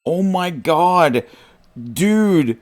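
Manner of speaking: high, delighted outburst; excited. Real, not acted. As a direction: cry out in amused disbelief. Reacting to chat message.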